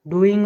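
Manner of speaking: डूइंग with the first vowel a long ऊ; long ऊ demo. Shown as a demonstration. Teacher flags the one exception, pronouncing डूइंग with long ऊ. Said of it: "ओ का उच्चारण ऊ होता है".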